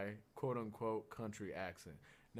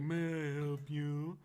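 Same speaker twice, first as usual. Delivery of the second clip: snotty waiter; 3 semitones higher, slower than usual. Retold or imitated.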